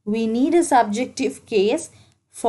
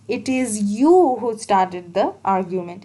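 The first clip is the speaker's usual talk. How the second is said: "you" pushed a little harder than the rest; stress on you. Shown as a demonstration. Teacher demonstrating emphasis, a light stress on "you". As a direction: lean on the word "you" in "it is you who started". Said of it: "It naturally puts an emphasis on the next pronoun, that is you".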